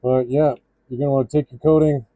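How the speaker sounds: muffled behind a respirator mask; talking through a mask. Real, not acted. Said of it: "Gonna be speaking through the respirator".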